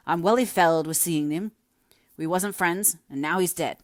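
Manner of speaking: a hint of a stricken workman; lightly voiced Higgins. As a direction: protest that you can't face it. Higgins refuses the task.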